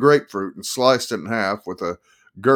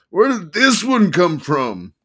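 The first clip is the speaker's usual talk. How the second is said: attorney voice; 9 semitones higher, 5 dB louder, slower than usual. Acted. Attorney voiced in read story.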